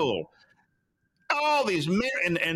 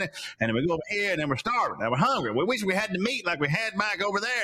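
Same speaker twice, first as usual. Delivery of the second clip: mock whining; 3 semitones higher, faster than usual. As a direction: imitate hungry people complaining. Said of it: "then we're whining and complaining".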